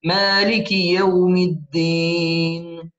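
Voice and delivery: slow, measured tajweed recitation with long held vowels; Quran recitation. Shown as a demonstration. Teacher recites the verse for students, slow measured recitation. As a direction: recite it slowly, drawing out the final syllable.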